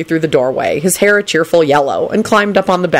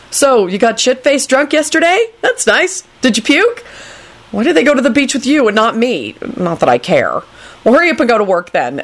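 higher, snippy mock-casual voice; needling young Neville; 4 semitones higher than usual. Neville imagines answering Kingsley, high and snippy. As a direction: needle him with feigned indifference.

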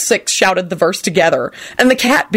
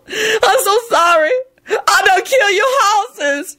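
high, drawn-out crying wail; blubbering; slower than usual. A narrator's reading. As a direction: blubber it slowly through tears. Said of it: "she blubbered".

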